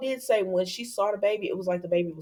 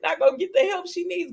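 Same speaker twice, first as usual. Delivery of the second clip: mock-scolding advice; 12 semitones higher than usual. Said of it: "I said".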